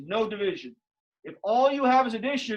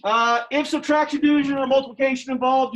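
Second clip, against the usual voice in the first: louder and higher; emphatic; 3 semitones higher, 6 dB louder than usual. Real, not acted. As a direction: push the warning hard. Teacher stressing a rule.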